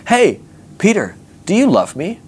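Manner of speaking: high, oddly drawn-out questioning voice; weird Jesus. Acted. Jesus asking Peter on the beach, weirdly high voice. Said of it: "Jesus has the weirdest conversation".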